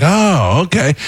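high surprised oh, okay; a touch of surprised relief; surprised reaction. Retold or imitated. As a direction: take it in with mild surprise. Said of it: "we were like".

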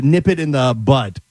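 "butt" ending on a T; slow "nip it in the butt" with a final t; mistaken saying. Shown as a demonstration. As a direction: say "butt" where "bud" belongs. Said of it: "I'd said butt for a long time".

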